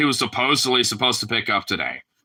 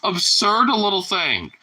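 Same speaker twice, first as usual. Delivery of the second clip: laughing affection; 9 semitones higher, much slower than usual. Real, not acted. Owner melting over absurd little dog, high and laughing. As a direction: squeal of laughter into slow, high doting.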